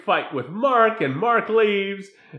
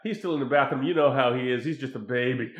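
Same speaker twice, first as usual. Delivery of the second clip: hushed phone voice; 5 semitones lower, faster than usual. Retold or imitated. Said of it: "she's like".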